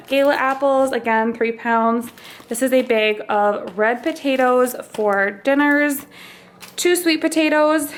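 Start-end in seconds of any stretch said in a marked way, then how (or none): 2.5-7.9 slightly winded while talking; a bit short of breath from pregnancy. Real, not acted. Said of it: "Sorry if I'm out of breath".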